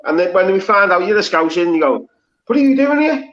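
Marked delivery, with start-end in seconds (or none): 2.5-3.3 much higher-pitched imitated question; mock questioning. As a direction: play someone questioning an outsider, pitched high. Acting out reaction to a Scouser.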